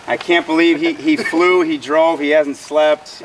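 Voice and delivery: amazed and fired up; excited disbelief. Real, not acted. Amazed at teammate's effort.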